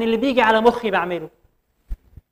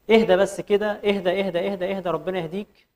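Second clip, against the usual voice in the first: calming down; 3 dB quieter than usual. Retold or imitated. Calming an imagined arrogant man.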